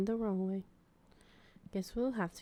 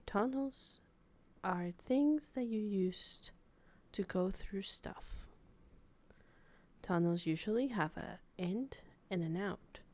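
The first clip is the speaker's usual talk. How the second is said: nature documentary narrator. Pretend. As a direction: narrate like a wildlife film. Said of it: "National Geographic documentary".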